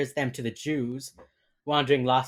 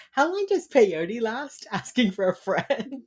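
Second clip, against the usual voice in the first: higher, slow, put-on sitcom voice; hammed-up retold question; Britta; 9 semitones higher, 3 dB louder, slower than usual. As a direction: draw it out as an imitation. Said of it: "she's like".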